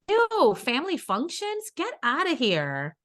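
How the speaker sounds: disgusted. Real, not acted. Rejecting a date idea.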